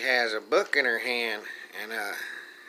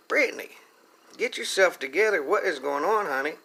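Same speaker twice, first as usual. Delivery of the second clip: high coaxing call; 5 semitones higher than usual. Retold or imitated. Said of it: "I said".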